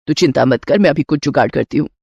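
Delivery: a doting mother-in-law offering a gift. Acted.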